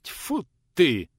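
disgusted exclamation; a touch of gruff annoyance; annoyed spit. Acted. Teacher spits in annoyance.

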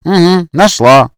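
slow grumbled agreement; grumbling. A narrator's reading. Max to Snezhana, slow grumbled reply. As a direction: begrudge her the point. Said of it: "проворчал Макс".

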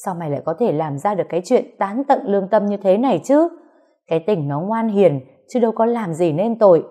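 beating her son while cursing him; mother rails at son as she beats him; furious scolding. Acted. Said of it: "vừa đánh vừa đấm bà vừa chửi".

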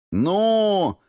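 high, sharp bark; barked demand. A narrator's reading. Interrogator presses a beaten thug for the address, barking. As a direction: bark it to force an answer. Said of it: "рявкнул я".

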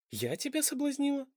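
shocked and offended; indignant. Acted. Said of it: "возмутилась Топси".

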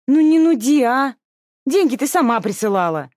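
put-on high, loud teen whine; whiny protest. Younger sister whines back at the scolding older sister. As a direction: push back at the nagging. Sisters quarrel over money.

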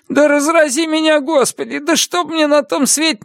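very high frantic vow; desperate oath. A narrator's reading. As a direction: swear it, voice cracking upward. Prisoner swearing an oath.

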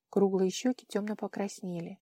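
plain reading voice

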